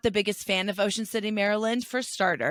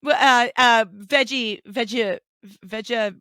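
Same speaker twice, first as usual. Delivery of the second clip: loud, high hammed-up Australian accent; hammed-up Aussie, fumbling veggie; mock Australian accent; 5 semitones higher, 9 dB louder than usual. Joking about her Aussie phrases, in a loud hammed-up Australian accent. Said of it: "she was British".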